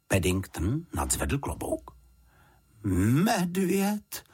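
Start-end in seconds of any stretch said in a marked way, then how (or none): 2.8-4.2 higher, drawn-out sceptical question; doubtful echo. A narrator's reading. Housekeeper repeating what she was told about the newcomer, doubtful. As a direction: stretch the word upward in disbelief. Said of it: "opakovala paní Ptáčková pochybovačně".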